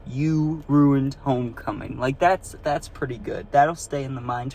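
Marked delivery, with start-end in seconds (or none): 0.1-2.0 mock stern accusation. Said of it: "and went".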